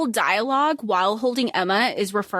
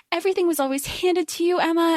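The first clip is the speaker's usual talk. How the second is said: taunting sneer; 7 semitones higher, faster than usual. Retold or imitated. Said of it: "And she's like".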